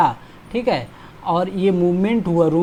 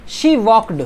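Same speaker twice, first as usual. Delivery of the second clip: slow, louder reading; slow loud dictation; 4 dB louder, much slower than usual. Shown as a demonstration. Teacher dictating the sentence slowly and loudly. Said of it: "तो वो room में उसने walk किया".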